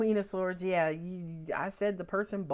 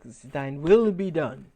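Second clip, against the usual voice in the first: lower, very slow, louder regal pronouncement; Emperor voice; 4 semitones lower, 6 dB louder, much slower than usual. Acted. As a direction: decree it like a stern emperor. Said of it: "That's my Emperor voice".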